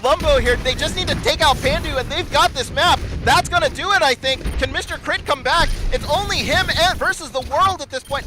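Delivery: high-energy fight calling; excited play-by-play. Real, not acted. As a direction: keep the energy high, push through.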